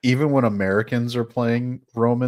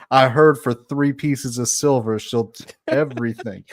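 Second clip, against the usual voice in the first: put-on Jersey Italian accent. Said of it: "the full Jersey style".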